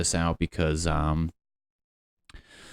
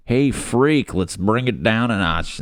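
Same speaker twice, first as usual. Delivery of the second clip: mock bullying; 4 semitones higher, slower than usual. Imagined bully calling to Tony.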